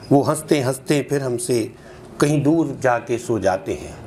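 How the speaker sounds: rhythmic, measured verse with falling line ends; nazm recitation. Acted. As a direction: recite each line as verse, with small pauses. (नज़्म का लयबद्ध पाठ)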